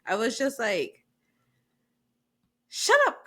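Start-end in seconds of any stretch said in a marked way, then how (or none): 2.7-3.3 high, loud exasperated yell at the screen; shouted shut up. Retold or imitated. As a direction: yell it at the TV, fed up. Snapping at Chriselle on TV.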